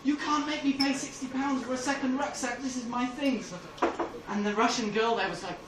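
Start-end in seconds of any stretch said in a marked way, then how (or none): 0.0-3.5 mild retold outburst of anger; getting angry. Passenger protesting a rucksack fee to airline staff, mildly angry. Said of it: "I began to get angry".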